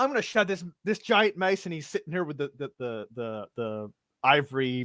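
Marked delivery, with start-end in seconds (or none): 0.0-1.7 enraged, furious ranting cleric voice, higher. Voicing an enraged cleric scolding a gnome player: furious ranting cleric. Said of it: "he just goes postal".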